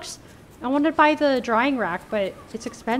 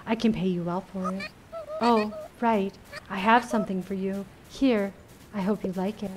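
a hint of an intense, serious lady; intense caretaker voice; 2 semitones lower, 4 dB quieter than usual. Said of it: "I had to give her a different voice".

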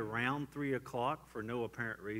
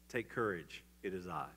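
a hint of a calming Jesus; calm reassurance; 5 semitones lower than usual.

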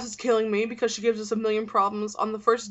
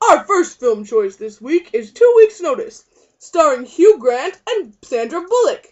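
film announcer; 4 semitones higher, 8 dB louder than usual. Acted. Presents the film like a trailer.

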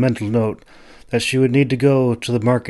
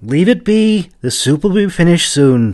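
put-on much higher, louder old woman scolding; 9 semitones higher, 5 dB louder than usual. A narrator's reading. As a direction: snap at him to leave it alone. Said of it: "she scolded him".

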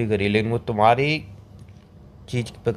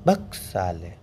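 talking wallet; 7 semitones lower, 4 dB quieter, much slower than usual. Acted. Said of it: "तो मेरी जेब ने बोला".

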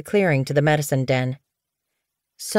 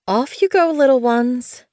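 much higher, put-on cheerful voice; forced cheer; 7 semitones higher than usual. A narrator's reading. Blue Fur shoos the scared kits, forcing cheer. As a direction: sound bright for the kits' sake. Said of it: "trying to sound cheerful".

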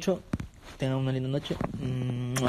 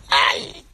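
pained gasp; 9 dB louder than usual. Real, not acted.

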